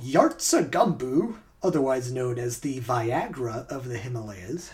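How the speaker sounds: measured scripted documentary read; story narration. Acted. Host reads a true-or-false story to players, narration.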